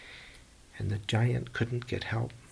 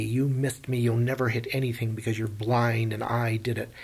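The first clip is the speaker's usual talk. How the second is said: mild taunting yell. Acted. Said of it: "Odysseus is yelling".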